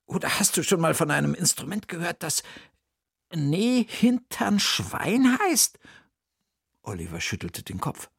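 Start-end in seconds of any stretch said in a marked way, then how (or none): 0.1-5.8 higher puzzled aunt voice; raised character voice, pondering; Bertha's voice. Acted. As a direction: play the clever aunt thinking aloud.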